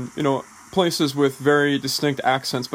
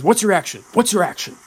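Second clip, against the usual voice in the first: higher, louder mock coach demanding an answer; action-heavy coach; 4 semitones higher, 4 dB louder than usual. Action-heavy coach pressing an unclear actor for the action, mock insistent. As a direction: push the questions like an insistent acting coach. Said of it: "really action-heavy coaches".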